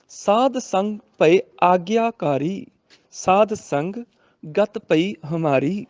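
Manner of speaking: slow, drawn-out sacred verse reading; measured teaching recitation; scripture recitation for teaching. Shown as a demonstration. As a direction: recite the line slowly, stretching the ends.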